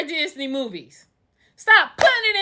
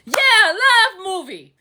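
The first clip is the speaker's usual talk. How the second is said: stretched-out, higher mock cheer; retold delight; 4 semitones higher, much slower than usual. Speaker recalling watching a love movie, slow hammed-up delight. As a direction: draw it out, revelling in the film. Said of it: "So I'm like".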